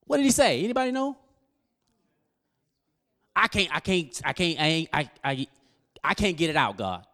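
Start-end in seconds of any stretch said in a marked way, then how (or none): 3.3-7.1 imitating a stutter. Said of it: "He stuttered".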